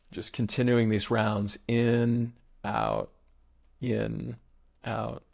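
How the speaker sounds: measured meditation guide with long pauses; even, spacious breathwork instruction; guided breathing meditation. Real, not acted. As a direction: lead them through the breaths, unhurried.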